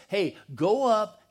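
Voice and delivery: loud, slow instruction in a dad's role; father's order. Acted. Dad sending Joseph to check on his brothers, loud order. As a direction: send the boy off firmly and loudly.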